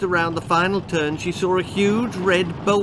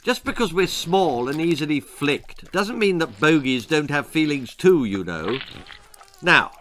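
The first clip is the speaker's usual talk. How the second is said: threatening bogeyman. Acted.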